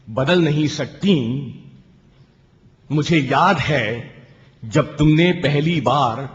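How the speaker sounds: rising, lingering poetic delivery; poem recitation. Acted. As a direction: recite to the audience, stretching the question. Poet recites second poem. (काव्य पाठ का अंदाज़)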